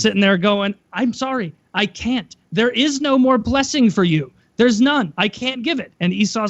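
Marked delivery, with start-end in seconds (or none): 0.9-5.9 lightly voiced no-returns clerk, somewhat higher; firm, mock-apologetic refusal; unyielding store employee. Father refusing his son like a no-returns employee, unyielding. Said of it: "like a fucking Radio Shack, no returns, no matter what employee".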